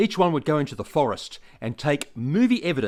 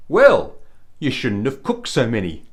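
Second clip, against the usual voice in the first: cheeky punchline; 5 dB louder than usual. Acted. Punchline of prank call.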